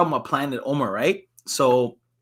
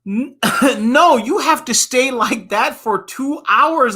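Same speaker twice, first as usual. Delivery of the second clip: laughing; 7 semitones higher, 3 dB louder, slower than usual. Real, not acted. Child insisting, laughing.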